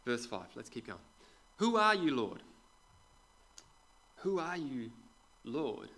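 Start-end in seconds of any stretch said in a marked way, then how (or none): 1.6-2.4 high, loud startled question; startled cry. Acted. Saul on the ground calls to the voice, startled loud. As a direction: blurt it out, thrown to the ground. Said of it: "Hang on a second".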